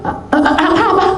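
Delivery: high stammered confusion, imitated; bingung, gelagapan. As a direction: stammer like a flustered helper. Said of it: "Bingung dia". (tergagap bingung dengan nada tinggi)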